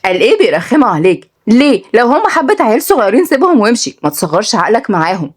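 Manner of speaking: sarcastic, animated Saidi telling-off; lightly voiced indignant sister; scolding big sister. Sister lectures brother about fighting, scolding.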